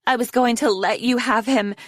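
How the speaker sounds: high, angry shout. A narrator's reading. Snowflake to her rival Foeslayer, shouting. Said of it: "Snowflake shouted at her".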